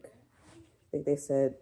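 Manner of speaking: talking through a burp; words pushed out on a burp. Real, not acted. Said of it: "That's a hunger burp".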